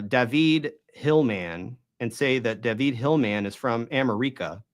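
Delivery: "David" as da-VEED, "America" as am-er-EE-ka; deliberate mispronunciation. Shown as a demonstration. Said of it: "you would think something was wrong".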